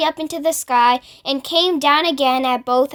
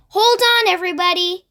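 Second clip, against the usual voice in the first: much higher urgent call; 5 semitones higher, faster than usual. A narrator's reading. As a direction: warn the whole crew to brace. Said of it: "James called out".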